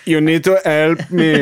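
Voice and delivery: slow, pleading ghost voice; a spirit begging from beyond. Pretend. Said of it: "that's my ghost voice".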